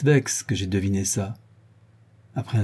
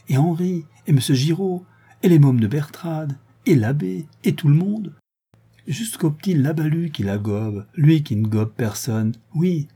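put-on high-pitched, eager little boy; boyish, animated enthusiasm; extremely animated; 6 semitones higher than usual. A narrator's reading. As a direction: gush through the list, lifting each item. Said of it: "avec une animation extrême".

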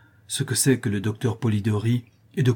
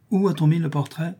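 a raised, impatient question to his wife; father demanding an answer, short on patience; 6 semitones higher than usual. A narrator's reading. Father asks wife where the portrait went, impatient. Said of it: "avec un mouvement d'impatience".

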